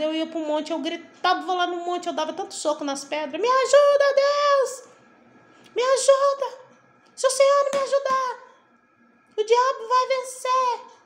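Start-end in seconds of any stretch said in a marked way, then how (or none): 3.4-11.0 high, loud desperate cry for help; desperate shout to God. Retold or imitated. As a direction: scream it out to God on the mountain in despair. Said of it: "Eu gritava assim com Deus".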